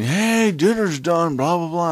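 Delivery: high, loud mock dinner call; imitated yelling. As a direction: holler like relatives calling upstairs. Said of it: "People are yelling".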